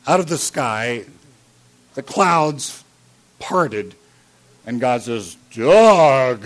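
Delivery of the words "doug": loud, resounding call from the sky; booming voice of God. Retold or imitated. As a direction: call the name like God from the clouds. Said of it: "I'm sure it would sound like that".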